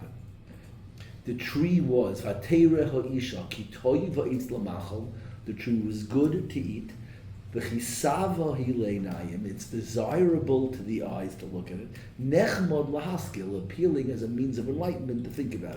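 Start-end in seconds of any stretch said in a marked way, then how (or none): 2.2-5.1 slow verse reading. Shown as a demonstration. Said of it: "say it one more time slow". 7.5-9.5 slow verse reading. Shown as a demonstration. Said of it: "one more time slow". 12.2-13.6 slow verse reading. Shown as a demonstration. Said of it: "one more time slow".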